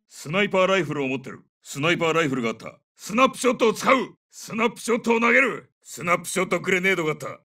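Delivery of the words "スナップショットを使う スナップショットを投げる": raised, higher-pitched call; combat callout. Acted. Soldier announces snapshot grenade to squad, high urgent callout. Soldier calls out gadget throw.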